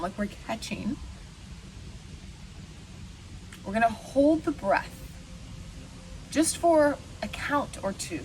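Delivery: unhurried meditation guide, long pauses; lightly meditative, leaving room to breathe; guided meditation. Acted. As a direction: guide listeners gently through the breath, pausing between phrases.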